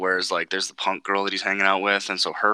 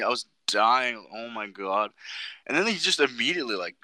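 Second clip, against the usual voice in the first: ordinary talk, nothing marked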